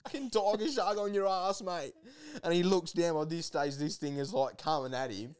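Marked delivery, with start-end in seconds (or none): 0.1-1.9 high-pitched mock yell to a mate; retold urgent warning. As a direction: re-enact an urgent shout of warning. Retold warning yelled to diving mate.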